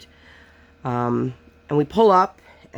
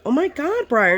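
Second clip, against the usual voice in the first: exasperated mom; 11 semitones higher than usual. Retold or imitated. Mom reacting to daughter screaming.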